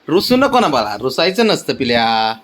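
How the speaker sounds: lightly sing-song coaxing; pet baby talk. Acted. Owner pleading with sulking cat, light baby talk. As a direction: gently plead with the pet not to sulk.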